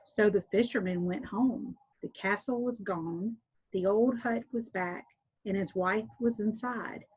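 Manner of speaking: clear, steady read-aloud storyteller voice; story narration. A narrator's reading. Teacher reading a folk tale to listeners, gentle storytelling. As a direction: read it like a bedtime tale for children.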